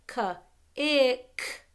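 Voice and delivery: "k-ick" split into kuh, then ick; sounding out. Shown as a demonstration. Teacher showing the C K ending, sounding it out.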